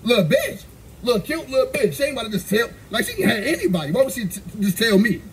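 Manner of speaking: giggling through the words; laughing while teasing. Real, not acted. Laughing while mocking her.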